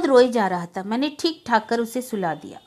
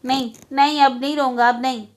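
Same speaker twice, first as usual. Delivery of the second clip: crying plea; 3 semitones higher, 4 dB louder than usual. Acted. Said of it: "रोते रोते कह रहा था".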